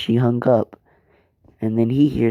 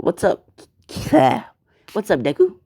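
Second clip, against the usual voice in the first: cheery greeting; 8 semitones higher than usual. Acted. Friends greet Deku cheerfully.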